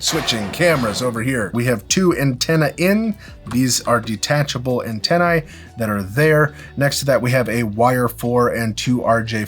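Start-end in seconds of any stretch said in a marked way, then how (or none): none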